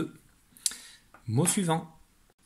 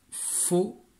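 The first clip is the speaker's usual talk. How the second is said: spaced-out dictation in three pieces; syllable by syllable; 6 semitones higher than usual. Shown as a demonstration. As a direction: separate each syllable with a short gap. Nouveau mot dicté par syllabes. (dictée syllabe par syllabe)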